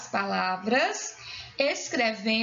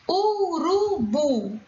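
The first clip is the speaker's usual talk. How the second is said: "Urubu" very slow, syllable by syllable, raised pitch; drawn-out syllables; 5 semitones higher, 3 dB louder, much slower than usual. Shown as a demonstration. Teacher asking for the tonic syllable, "Urubu" drawn out. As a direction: stretch each syllable of "Urubu". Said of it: "Qual é a sílaba tônica?".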